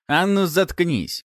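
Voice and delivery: резкий грубый окрик, выше, громче и медленно; гаркнуть на напарника, чтобы замолчал; рявкнуть. A narrator's reading. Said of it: "рявкнул один из бандитов". (бандит орёт на напарника, рявкая)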